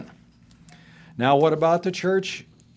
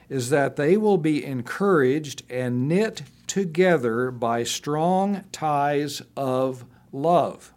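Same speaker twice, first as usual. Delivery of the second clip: raised, slowing earnest reading; scripture reading; slower than usual. Acted. Pastor reading Paul's goal to the church, earnest and slowing. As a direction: draw out the closing words of the verse.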